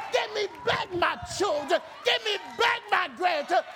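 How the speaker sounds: shouted demand to reclaim what was taken; taking back authority. Shown as a demonstration. Preacher shows the church how to take authority back, shouting. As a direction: bold defiant claim against the devil. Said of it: "say it like they taking back authority".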